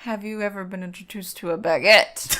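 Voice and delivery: mock stilted British clergyman; stilted British accent. Mock clergyman asking a girl, stilted British accent. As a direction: ask it like a prim British game show host. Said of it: "stilted British accent".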